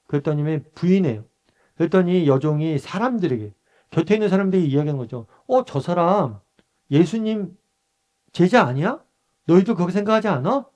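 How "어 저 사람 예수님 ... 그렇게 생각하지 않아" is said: higher-pitched questioning, lightly acted; accusing servant girl. Acting servant girl pointing out Peter.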